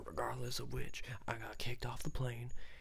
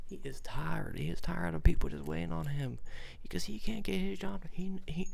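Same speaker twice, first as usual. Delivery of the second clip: much higher and louder, building; rising rant; 7 semitones higher, 6 dB louder than usual. Retold or imitated. Storyteller ranting about tired Santa, building. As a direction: rant harder and harder.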